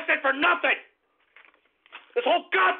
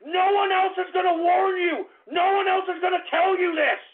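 angry shout; 3 semitones higher than usual. Real, not acted. Ranting warning to listeners.

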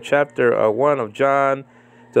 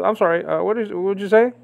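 high, innocent mock confusion; mock stalling debater; 6 semitones higher, faster than usual. Mocking the debater who stalls, feigned confusion. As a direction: play dumb to waste time.

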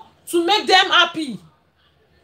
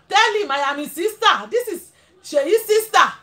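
playing her sister. On the phone to her brother's friend, posing as his uneducated sister. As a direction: put on the voice of a sister who never went to school.

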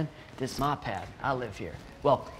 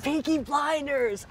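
mock Irish accent; 11 semitones higher, slower than usual. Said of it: "It's not a bad accent".

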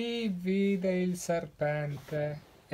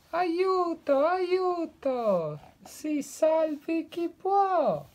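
high, loud terrified squeal; high frightened creature voice; panicked cry for help; 13 semitones higher, 5 dB louder, slower than usual. Acted. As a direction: shriek it out like a scared little creature.

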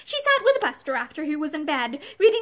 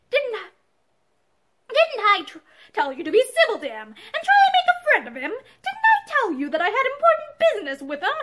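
high, loud hectoring; berating shout; 8 semitones higher, 5 dB louder than usual. A narrator's reading. Husband berates Pansy, high and loud. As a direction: hammer each accusation home.

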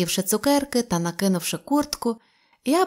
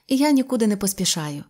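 usual speaking voice

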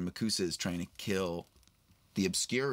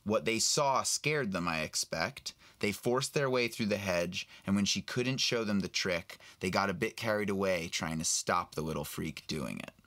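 steady storybook reading, lightly voiced old man; reading a novel aloud. Actor reading Aberforth's lines to a fan host, lightly voiced. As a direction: read the passage to your friend. Reads Deathly Hallows aloud.

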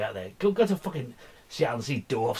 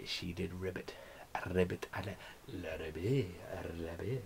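croaking frog; 6 semitones lower, 12 dB quieter, slower than usual. Pretend.

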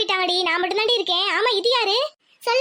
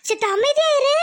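high, dismayed scolding; shocked; 5 semitones higher than usual. Acted. Mother hears daughter refuse wedding, shocked. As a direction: react in shock and hush her.

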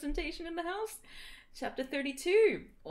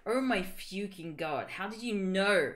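gasped; 3 semitones lower than usual. Acted. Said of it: "Satan gasped".

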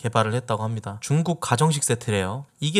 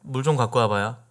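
Jeolla dialect; 2 semitones lower than usual. Shown as a demonstration. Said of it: "아야".

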